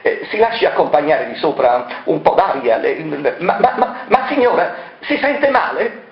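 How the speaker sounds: stammer, unsure what to do; stammering worry. Acted. De Marchis stammers, worried about the lady.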